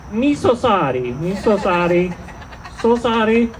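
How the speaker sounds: lightly put-on Asian accent apology; mock Asian accent. Comic apologizing to Asians to help end hate, mock Asian accent. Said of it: "I love the Asian accent".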